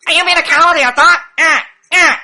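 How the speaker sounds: high, mocking Indian accent. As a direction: put on an annoying Indian accent. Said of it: "this annoying Indian voice".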